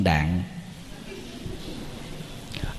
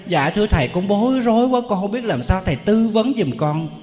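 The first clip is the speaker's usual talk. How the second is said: put-on fretful young girl; 6 semitones higher than usual. Girl pleads for advice.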